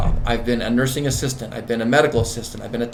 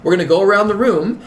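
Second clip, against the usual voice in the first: catchphrase; 6 semitones higher, 4 dB louder than usual. Retold or imitated. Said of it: "That's one of my favorite sayings".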